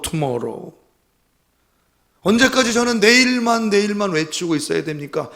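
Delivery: loud, high, pleading cry to God; a desperate, loud prayer of lament; anguished lament. Retold or imitated. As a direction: wail the confession out in anguish. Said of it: "이렇게 고백했다는 겁니다".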